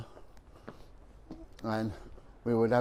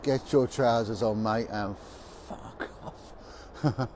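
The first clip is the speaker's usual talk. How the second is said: London working-class sergeant, dropping to a hushed finish; deadpan London accent, trailing away softly; lightly imitated working-class London copper; 2 semitones lower, 4 dB quieter, slower than usual. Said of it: "in a working class London accent".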